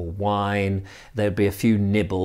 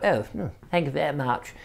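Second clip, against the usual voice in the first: posh guest; 3 semitones higher, 7 dB quieter than usual. Retold or imitated. Guest declining a top-up.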